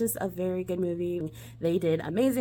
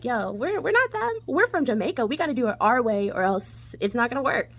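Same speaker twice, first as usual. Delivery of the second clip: put-on lightly Jamaican-accented Sanka; 3 semitones higher than usual. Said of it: "my Jamaican accent is terrible".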